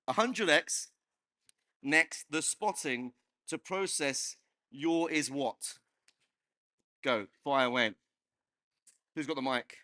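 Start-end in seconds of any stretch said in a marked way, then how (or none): 0.1-5.8 backwards speech. Shown as a demonstration. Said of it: "I'm gonna talk backwards".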